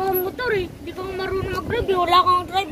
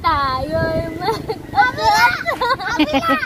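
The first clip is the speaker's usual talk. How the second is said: calling out; 3 semitones higher, slower than usual. Real, not acted. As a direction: shout the name to reach her. Calling out a name.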